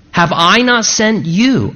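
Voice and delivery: slow question landing hard on "you"; stress on YOU. Shown as a demonstration. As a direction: lean on the final "you", drawn out. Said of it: "Perhaps the emphasis on the word you".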